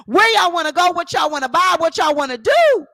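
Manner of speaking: high, loud, laughing mock celebration; gleeful taunt. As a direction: crow it like a winner flaunting cash.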